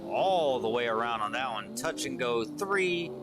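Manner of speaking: energetic live race commentator voice; play-by-play commentary. Acted. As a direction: call the drift battle as it happens.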